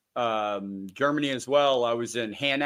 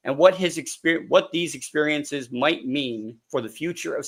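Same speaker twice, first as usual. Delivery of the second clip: measured, formal host read; scripted podcast introduction. Acted. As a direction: read out the guest's credentials.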